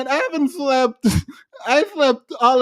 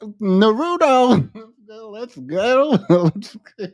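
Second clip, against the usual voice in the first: mock dweeb; slower than usual. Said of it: "dweeb on the phone talking".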